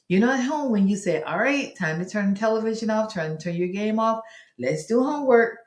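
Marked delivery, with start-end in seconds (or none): 1.2-5.6 lightly acted, higher-pitched parent voice; parent announcing homework time. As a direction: round up a child for homework. Voices parent ending screen time.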